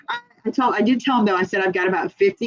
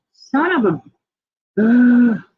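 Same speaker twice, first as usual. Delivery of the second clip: a mock angry curse that gets louder on the last word; frustrated curse; 4 semitones higher, 4 dB louder, much slower than usual. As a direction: swallow the swear in fake fury. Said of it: "I was like".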